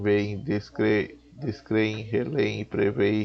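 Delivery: usual speaking voice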